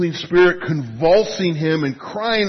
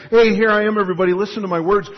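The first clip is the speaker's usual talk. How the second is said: louder, quick, self-promoting call; hammed-up attention grab; mock showy announcement; 2 semitones higher, 4 dB louder, much faster than usual. Mocking casual Jesus.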